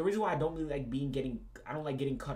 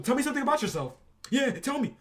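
mock girly voice, higher and louder; mocking her voice; 11 semitones higher, 9 dB louder than usual. Mocking the date's question in a mock high voice. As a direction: parody her prying question. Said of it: "she just talk about some".

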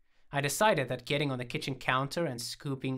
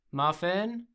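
higher, rising coo; 5 semitones higher, 4 dB louder than usual. A narrator's reading. Trying out a name on the dog, cooing. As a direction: coax a pet with the name. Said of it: "I cooed".

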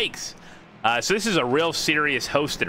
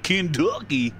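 mock Southern twang on Kentucky; Southern accent. Shown as a demonstration. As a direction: stretch Kentucky like a hammed-up Southerner. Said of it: "It's not wrong if they don't say it".

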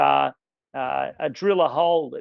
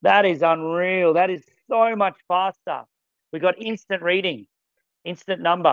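excited; 3 semitones higher than usual. Real, not acted. Presenter impressed by the instant reading, excited. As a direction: punch each phrase, genuinely thrilled. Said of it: "I'm getting excited".

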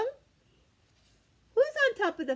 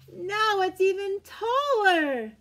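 slow, louder build; building excitement; 3 semitones higher, 4 dB louder, slower than usual. Acted. Reading to children, slow building excitement. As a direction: lean into taller.

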